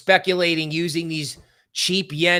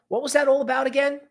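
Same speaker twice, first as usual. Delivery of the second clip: mock puzzled; 10 semitones higher, faster than usual.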